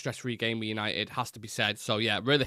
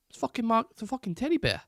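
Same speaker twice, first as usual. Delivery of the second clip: put-on much higher Mark Wahlberg Boston accent; 11 semitones higher than usual. Streamer teasing a Boston viewer with a movie line, mock Boston accent. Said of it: "Do you speak like that".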